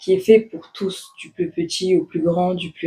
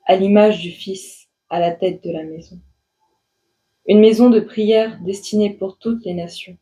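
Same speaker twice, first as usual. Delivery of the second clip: measured poem recitation with long pauses between lines; composed, deliberate verse reading. Acted. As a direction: read your poem line by line, letting each phrase settle. Reads her poem aloud.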